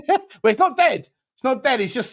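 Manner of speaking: laughing at teammate's jibe about the story. Real, not acted. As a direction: chuckle through the denial. Laughing off the transfer rumour.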